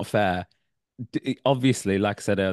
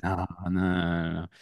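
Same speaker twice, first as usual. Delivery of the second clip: put-on Filipino accent; 3 dB quieter than usual. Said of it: "I can just do a general Filipino accent".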